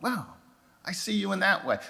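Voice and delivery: hushed, awed realization; soft wonder. Retold or imitated. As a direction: breathe it in quiet amazement. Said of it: "and it's like".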